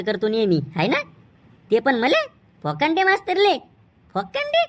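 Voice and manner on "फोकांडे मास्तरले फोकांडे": teasing, the name squeaked up high at the end; a cheeky student mocking the teacher's name. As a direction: jeer at the teacher's nickname like a cheeky kid. Kid mocks teacher's name.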